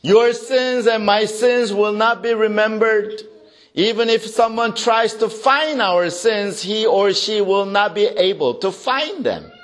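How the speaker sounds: sustained high-pitched sermon declaration; emphatic preaching. Real, not acted. Preacher assuring congregation sins are forgotten, emphatic. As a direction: declare it firmly with lifted pitch.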